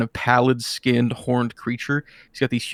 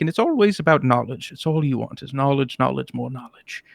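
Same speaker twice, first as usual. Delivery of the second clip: put-on old wizard. Malcador lectures the demon.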